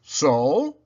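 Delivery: breathy unvoiced challenge. A narrator's reading. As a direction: toss it back knowingly. Santa's challenge.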